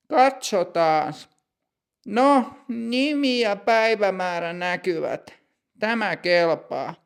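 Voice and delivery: brisk but proper; lightly voiced stern clerk.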